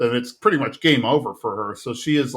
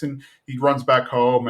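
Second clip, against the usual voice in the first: ordinary talk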